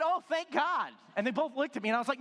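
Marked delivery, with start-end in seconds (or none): 0.0-0.9 high, relieved outburst; exclaimed relief. Retold or imitated. Dad learns the word was mild, exclaiming in relief. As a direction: let the relief burst out, pitched well up.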